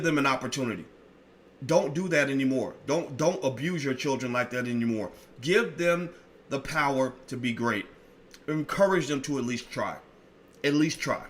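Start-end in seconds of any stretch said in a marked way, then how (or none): 1.7-11.2 numb mouth after the dentist; words slurred from a numb mouth; talking funny from dental work. Real, not acted. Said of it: "why I'm talking funny, it's because I'm taking care of my dental health".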